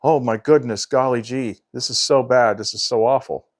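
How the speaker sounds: lightly voiced pearl-clutching prude; a hint of gee-whiz shock; wholesome 1950s kid. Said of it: "clench up and clutch their pearls".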